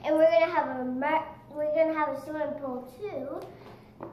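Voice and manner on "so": talking through a mouthful; words around a bite of food; mouth full. Real, not acted. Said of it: "Just don't talk with food in your mouth".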